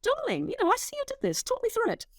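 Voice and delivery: high-pitched, gently coaxing mum voice; calm mother. Acted. Mother to her eight-year-old after finding his search, calm. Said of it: "stayed calm, put him down, went".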